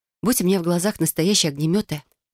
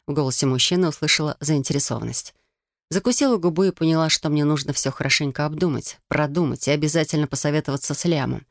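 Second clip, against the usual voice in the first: ordinary delivery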